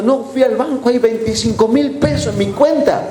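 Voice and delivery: lightly acted agitated old woman; mock trembling, tearful. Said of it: "vino temblando, llorando".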